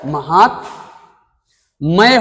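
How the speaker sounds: महात्मय slowly, long pause before the final "may"; correct form, broken up. Shown as a demonstration. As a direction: split महात्मय into "mahaat" and "may". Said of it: "शुद्ध है".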